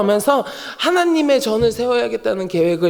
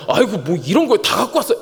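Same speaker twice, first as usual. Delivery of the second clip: brisk, genuine-sounding reproach; mock complaint. Receiver of a gift complains, mock reproach. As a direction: scold them for bringing it. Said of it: "야, 아니잖아요".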